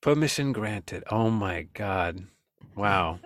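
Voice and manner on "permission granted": mock grand. Host savors the phrase.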